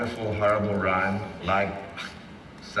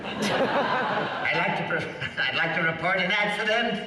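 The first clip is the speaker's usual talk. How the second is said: slow, higher campy drawl; Paul Lynde-style goo; 5 semitones higher, slower than usual. Acted. Voice actor recalling his green goo character, campy and slow. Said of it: "talks like Paul Lynde".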